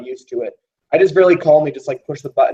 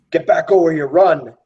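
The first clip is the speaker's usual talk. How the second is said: mild yell, a little raised; yelled order; 3 semitones higher than usual. Acted. Gunfighter yelling at the guard to get back, mild yell. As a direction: call it out as a half-shouted command. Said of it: "I yell at the".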